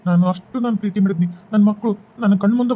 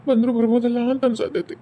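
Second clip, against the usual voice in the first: mourning lament. Acted. Widower mourns wife and children.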